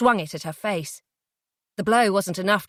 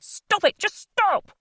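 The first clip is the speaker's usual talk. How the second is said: almost in tears; 13 semitones higher, slower than usual. Acted. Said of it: "He was almost in tears".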